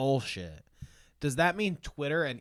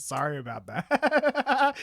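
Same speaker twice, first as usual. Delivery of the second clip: much higher, slow, laughing apology; 11 semitones higher, 4 dB louder, slower than usual. Retold or imitated. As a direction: squeak it out through a laugh. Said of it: "Seth Everman comes in and says".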